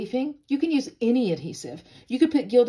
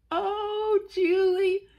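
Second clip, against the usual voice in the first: eager fan; 10 semitones higher, much slower than usual. Pretend.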